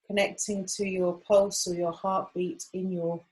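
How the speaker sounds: gentle meditation voice, long pauses between phrases; guided meditation. Acted. Guide settling a group into acupressure practice, calm and unhurried. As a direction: guide them gently, leaving room to breathe.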